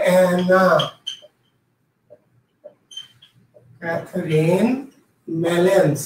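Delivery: slow, low dictation with long pauses between the names. Shown as a demonstration. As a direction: dictate the name word by word for note-takers. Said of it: "নামটা যদি কেউ লিখে নিতে চান". (ধীরে ধীরে থেমে থেমে শ্রুতিলিখনের ভঙ্গিতে)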